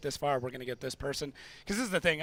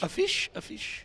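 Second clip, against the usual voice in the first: silly high voice; 14 semitones higher, slower than usual. Pretend. Silly playful voice.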